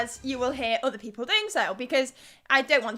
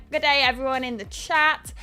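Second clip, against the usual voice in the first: a light attempt at an Australian accent; 3 dB louder than usual. Streamer greeting the live chat, in a light mock Australian accent. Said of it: "that was my best Australian accent".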